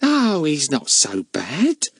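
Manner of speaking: slow, easygoing cheerful woman; cheerful charwoman, unbothered. Acted. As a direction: shrug it off cheerfully. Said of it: "said Missus Cockles's cheerful voice".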